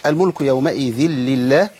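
slow, measured tajweed recitation; Quran recitation. Shown as a demonstration. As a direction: recite with drawn-out vowels. Teacher recites verse.

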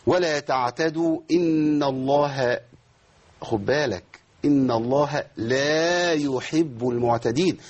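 slow chanted verse, alif given its length; teacher reciting verse as model; slow recitation. Shown as a demonstration. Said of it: "واختلس من زمن الألف".

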